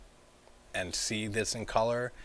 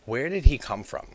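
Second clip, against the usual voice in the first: sudden loud, higher puzzled question; loud exclamation; 6 semitones higher, 10 dB louder than usual. Real, not acted. Puzzled outburst about the character.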